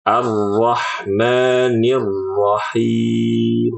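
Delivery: slow, drawn-out Ar-Rahmanir Rahim without a pause before the doubled letter; slow Quran recitation demo; correct recitation. Shown as a demonstration. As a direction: glide straight into Ar-Rahmanir Rahim. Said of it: "Harusnya gitu".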